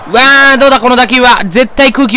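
excited. Real, not acted. Gamer watches the fly ball land, excited and loud. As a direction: call the fly ball in suspense.

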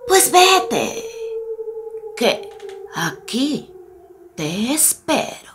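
quiet, sly wolf trailing into a whisper. Acted. Wolf letting grandma go, softly and slyly. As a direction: let it sink to a sly whisper.

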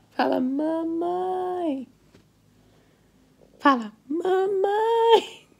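high, stretched motherese, coaxing; mother coaxing her baby to say mamãe, high baby talk. Acted. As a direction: sing it up high so the baby copies you.

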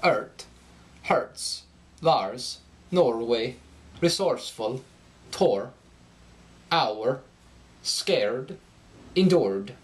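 "Ert", "Lars", "Norway", "endured" with a slight lift in pitch on the R ending; Scandinavian rising R. Shown as a demonstration. Coach demonstrating the rising Scandinavian R endings. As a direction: let each R ending rise in Swedish-style melody. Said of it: "the R endings are going to rise in pitch".

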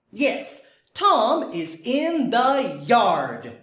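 slow, bouncy storybook voice; reading to a toddler. Acted. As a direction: read it out slowly for little ones. Teacher reading story to kids.

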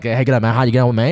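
lightly imitated Australian greeting; Australian accent. Showing how Australians speak, a light Australian accent. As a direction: try a casual Australian accent. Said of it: "the way they speak".

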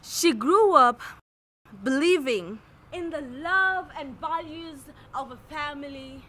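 measured lines with long dramatic pauses; poetic recitation. Acted. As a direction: recite it like a spoken-word self-portrait, phrase by phrase. Recites poetic third-person self-portrait.

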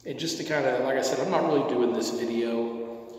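speaking right after a pipe puff; smoky breath between words; exhaling smoke while talking. Real, not acted. Seen 0: pipe in hand, not mouth; smoke leaves mouth while talking.

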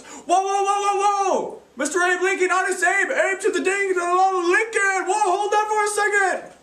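high, loud, brash interrupting rant; a rapper. Acted. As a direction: barge in high and loud, full of swagger. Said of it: "a rapper would time travel".

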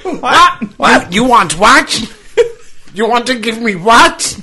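high, loud, incredulous squeal of disbelief; shocked squeal. Acted. Mock-shocked squeal at a stranger's offer. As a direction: shriek the question up as if scandalised. Mock outrage at lumberjack line.

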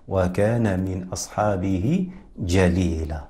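measured, slightly slow verse reading; poem recitation. Acted. Teacher reads Imam al-Dani's verses to viewers, measured recitation. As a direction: recite the didactic poem steadily, line by line.

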